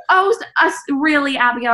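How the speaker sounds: high, indignant mom voice; an offended mother's squeak; mock mom. Mom hurt at being sent away, high indignant squeak. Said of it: "And she goes".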